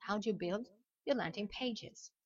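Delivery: "How do you" run together as how-dju; contraction. Shown as a demonstration. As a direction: say the question with "do you" squeezed to dju. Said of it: "j'ai fait la contraction ici". (« How do you » contracté en how-dju)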